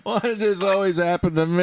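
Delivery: high, loud whiny lament; frustrated groaning. Real, not acted. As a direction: wail at the unfairness. Frustrated, muted in the meeting.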